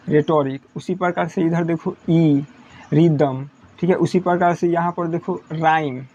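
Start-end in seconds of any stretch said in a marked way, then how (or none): 0.1-0.6 रेटोरिक said "retorik", h dropped; silent h in रेटोरिक. Shown as a demonstration. Teacher modelling रेटोरिक, h left silent. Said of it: "मतलब एच खत्म". 2.9-3.4 रिदम said "ridam", h dropped; silent h in रिदम. Shown as a demonstration. Teacher modelling रिदम, h left silent. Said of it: "ये एच silent हो जाएगा".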